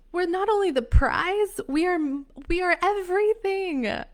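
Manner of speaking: loud, high and impassioned; high-pitched, forceful proclamation; emphatic declaration. Real, not acted. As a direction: proclaim it with full conviction.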